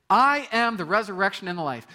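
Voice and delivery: high, loud proclaiming; bold declaration. Shown as a demonstration. Preacher proclaiming Jesus' words as a declaration. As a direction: proclaim it to the whole hall. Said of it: "That's quite the declaration".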